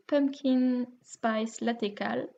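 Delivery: slow, careful English accent on a French tongue. Shown as a demonstration. Naming the knit-along for viewers, self-mocking English accent. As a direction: say Pumpkin Spice Latte Cal with a proud English accent. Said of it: "vous noterez mon magnifique accent".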